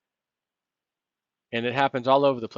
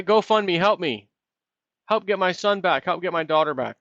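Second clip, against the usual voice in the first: mock pleading parent; 4 semitones higher than usual. Mock plea from parents of soldiers.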